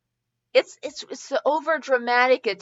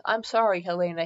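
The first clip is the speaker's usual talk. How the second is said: soft; 6 semitones lower, 6 dB quieter, faster than usual. Acted. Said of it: "he said softly".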